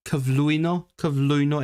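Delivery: "Cyflwyno" with a strong stress on the penultimate syllable; heavily stressed syllable. Shown as a demonstration. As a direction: lean hard on the next-to-last syllable of "Cyflwyno". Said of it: "like, stress it a lot".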